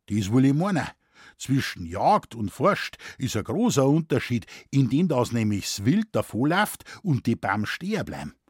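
lightly voiced Bavarian forester, matter-of-fact; Moosbichler. Forester explains hunting versus forestry to a scholar, matter-of-fact Bavarian. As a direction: explain it in Bavarian dialect, sure of yourself.

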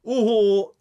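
loud high call across the room. Acted. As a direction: shout to get attention. Calling out to the owl.

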